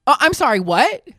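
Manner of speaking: mock affronted. Woman turning on the old man, mock affronted. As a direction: act out an affronted comeback. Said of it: "And she goes".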